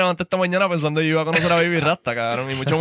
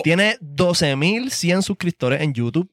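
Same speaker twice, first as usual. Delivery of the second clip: show host intro. Acted. Host introduces King Impact to the audience, hyped.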